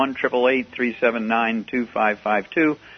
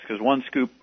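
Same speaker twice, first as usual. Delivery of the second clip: hiccups. Real, not acted. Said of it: "I got the hiccups here".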